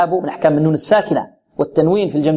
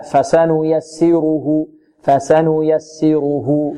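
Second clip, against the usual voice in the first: slow corrected recitation; full vowel measure; much slower than usual. Shown as a demonstration. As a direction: recite فسنيسره unhurried, giving every vowel its full length. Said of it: "البعض ربما يسرع فيها". (تلاوة متمهلة دون اختلاس)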